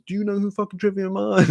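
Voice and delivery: high-pitched retold fan excitement; giddy and high, without extra volume; really stoked. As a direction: pester strangers like a thrilled fan. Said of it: "I was, like, really stoked".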